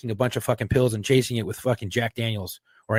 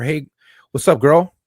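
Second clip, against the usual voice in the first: mock flirty greeting; 4 semitones higher, 7 dB louder, slower than usual. Shown as a demonstration. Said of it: "don't say it like that".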